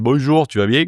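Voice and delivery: put-on lightly boosted Midi accent; exaggerated southern accent. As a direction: lay on the southern French accent a little. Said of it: "Alors je l'ai augmenté aussi".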